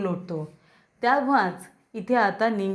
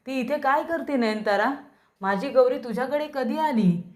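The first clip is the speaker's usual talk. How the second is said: surprised; 4 semitones higher than usual. Retold or imitated. Husband recognizes lost first wife.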